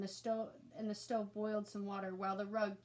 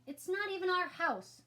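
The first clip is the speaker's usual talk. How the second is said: put-on high, louder defiant child voice; defiant kid; 9 semitones higher, 5 dB louder than usual. A narrator's reading. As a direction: toss it back with a sneer. Sister defies brother.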